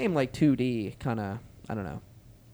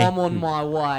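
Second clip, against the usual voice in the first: slow mock TV nanny voice; echoing the nanny, hammed up; Super Nanny impression; 4 semitones higher, slower than usual.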